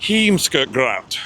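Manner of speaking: Heemskerkraat said very slowly, sound by sound; drawn-out, practised Heemskerkraat; careful pronunciation. Shown as a demonstration. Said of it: "try and pronounce the name".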